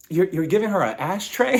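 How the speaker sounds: incredulous, faltering question, lightly disgusted; mildly mock disgust. Mary reacting to the unicorn gift, mildly disgusted. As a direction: question the gift with a touch of disdain. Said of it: "Mary was looking at this in disgust".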